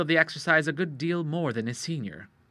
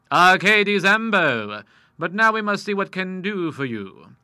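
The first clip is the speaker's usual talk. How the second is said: put-on louder courtly old lawyer, polished; a white-haired lawyer charming new clients; lightly voiced amiable old lawyer; genial old lawyer; 2 semitones higher, 7 dB louder than usual.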